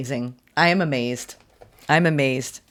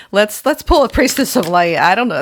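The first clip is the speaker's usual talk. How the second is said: excited; 6 semitones higher, 6 dB louder than usual. Real, not acted. Laughing, excited card pull.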